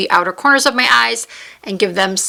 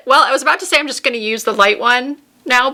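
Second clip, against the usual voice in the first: laughing; 3 semitones higher, faster than usual. Real, not acted. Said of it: "don't know why I can't stop laughing".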